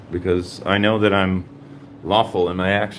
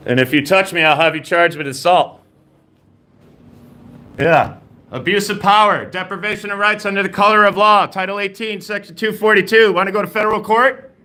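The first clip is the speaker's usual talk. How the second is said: calm turning angry; 9 semitones higher than usual. Real, not acted. Arguing with guard, rising heat.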